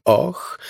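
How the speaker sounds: a brief, understated "oh" of release; restrained moan. A narrator's reading. Narrator voicing a man's moan in lovemaking, understated. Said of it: "jęknął".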